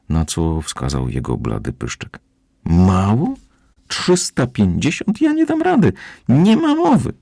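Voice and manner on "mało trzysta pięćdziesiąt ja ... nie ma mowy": panicked refusal. Acted. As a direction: voice shooting very high in alarm. Morfeusz panics at the distance. (spanikowany, piskliwy protest kota)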